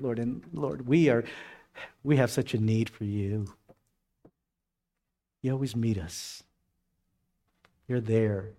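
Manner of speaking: fervent pastor's prayer, gently dropping. Acted. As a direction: pray over the church family. Leads the congregation in prayer.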